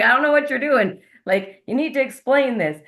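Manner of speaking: mock bewildered, what are you doing; baffled. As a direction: friend telling how she reacted when shown the hands, mock puzzled. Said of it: "I was like".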